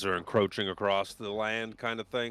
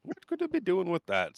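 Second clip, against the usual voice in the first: villain musing; 10 semitones higher than usual. Acted. GM repeats line, higher.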